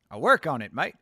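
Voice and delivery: a rough put-on Australian accent, leaning on mate; Aussie accent. Streamer answering chat's teasing in a shaky Australian accent. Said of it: "Your Aussie ass-, accent sucks".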